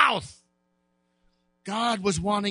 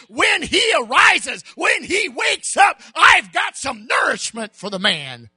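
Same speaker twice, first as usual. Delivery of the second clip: mild angel voice; 4 semitones higher, 4 dB louder than usual. Acted. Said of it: "and said".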